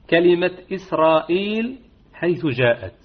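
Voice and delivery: إسرائيل recited with a short madd; recited example. Shown as a demonstration. Teacher introduces the exception word. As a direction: recite إسرائيل, two beats only. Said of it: "الجديس القصر".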